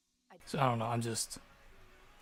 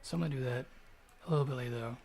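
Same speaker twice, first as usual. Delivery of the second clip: talking with a dry mouth; words sticking from a dry mouth; faster than usual. Real, not acted. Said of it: "I can't talk. My mouth is so dry".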